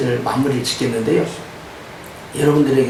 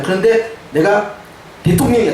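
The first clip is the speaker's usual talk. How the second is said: normal talking voice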